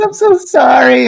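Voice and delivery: high-pitched mock panicked sorry; panicked apology. Guide after door hits her, panicked retold apology. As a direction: act out helpless, mortified apologizing.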